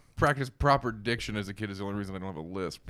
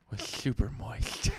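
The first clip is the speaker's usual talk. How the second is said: retainer voice; 2 semitones lower, 4 dB quieter, slower than usual. Shown as a demonstration. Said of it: "do it with a retainer voice".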